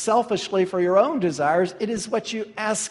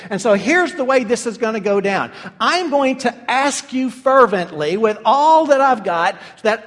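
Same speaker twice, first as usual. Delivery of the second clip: a grapevine branch whining, building to louder; demanding branch; 3 semitones higher, 6 dB louder than usual. Retold or imitated. Branch telling the vine it wants raspberries, building louder. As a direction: start sulky, end demanding, louder. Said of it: "the branch goes back to the vine and says".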